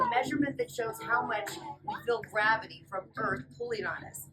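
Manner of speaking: lively storybook read-aloud; reading to children. Acted. Teacher reading a fly's story to the class, lively. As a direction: read it brightly to a room of kids. Reading picture book to kids.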